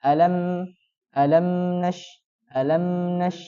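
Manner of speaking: alam with the m flowing lightly; bainiyah on mim. Shown as a demonstration. Teacher showing the flowing mim. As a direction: let the m in alam flow a little, not too long. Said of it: "Jadi cara bacanya".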